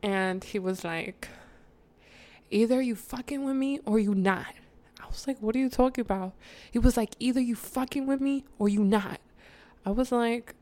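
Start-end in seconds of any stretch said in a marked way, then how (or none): 2.5-4.5 retold confrontational demand, a touch raised; mock ultimatum. Boyfriend confronting her in the car, mock ultimatum. 5.4-6.3 retold confused question, slightly raised; puzzled protest. Girlfriend answering the boyfriend's ultimatum, mildly puzzled protest. 7.2-9.2 higher retold challenge, insistent; mock ultimatum. Boyfriend repeating his demand to her, insistent mock ultimatum.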